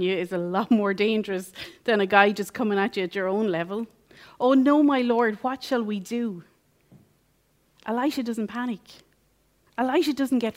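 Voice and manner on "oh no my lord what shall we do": panicked servant. Retold or imitated. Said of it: "he panics".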